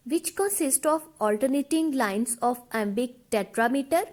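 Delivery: slow, even dictation pace; teacher dictating notes, word by word; dictation reading. Acted. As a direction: read the definition out slowly so students can write it down. Reads definition slowly for notes.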